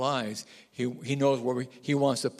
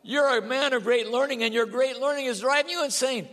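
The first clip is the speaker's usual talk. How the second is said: shouted accusation; 9 semitones higher than usual. Acted. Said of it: "he shouted".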